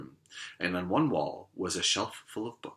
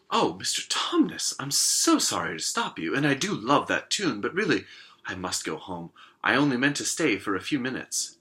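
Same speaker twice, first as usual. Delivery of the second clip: Lucy voice; 4 semitones higher, 5 dB louder than usual. Acted.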